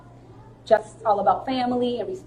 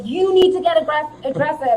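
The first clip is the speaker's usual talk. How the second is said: higher, insistent coach imitation; 5 semitones higher, 4 dB louder than usual. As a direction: repeat it like a coach pressing the point. Imitating coach urging her on.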